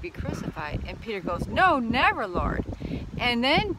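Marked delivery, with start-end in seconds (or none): 1.5-2.6 mild mock protest. Peter protests Jesus' death.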